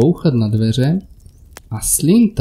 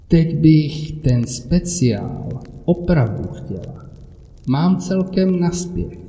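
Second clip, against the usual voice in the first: eerie slow woman; 3 semitones higher, slower than usual. Acted. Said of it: "creepy woman speaks slowly".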